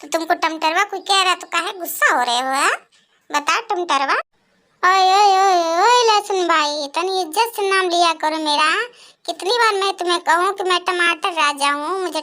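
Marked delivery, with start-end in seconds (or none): 4.8-6.9 calling out. Acted. Tomato calls out to garlic.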